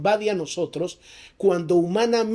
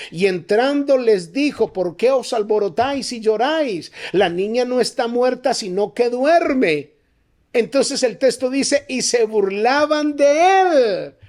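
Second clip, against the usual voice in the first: raised, insistent preacher's pitch; full-force preaching; 6 semitones higher, 4 dB louder than usual. Real, not acted. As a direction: build to ringing, stretched-out commands.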